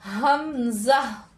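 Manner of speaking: teacher demonstrating हमजा slowly; slow demo of hamza. Shown as a demonstration. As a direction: stretch हमजा long and slow from the throat. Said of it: "तो यहाँ पर हम कैसे पढ़ेंगे".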